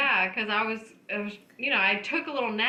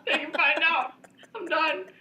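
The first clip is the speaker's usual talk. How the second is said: high-pitched, laughing as she talks; giggling through the confession; 5 semitones higher than usual. Real, not acted. Laughing while admitting it.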